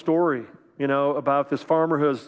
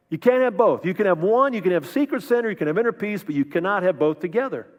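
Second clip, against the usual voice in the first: raised higher and louder, hammering each choice; emphatic preaching; 4 semitones higher, 3 dB louder than usual. Real, not acted. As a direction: preach it hard, secret sin or inner peace. Preacher drives home the point.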